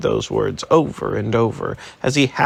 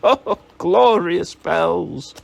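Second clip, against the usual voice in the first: laughing; 5 semitones higher, 3 dB louder, slower than usual. Acted. Laughing joy at bells.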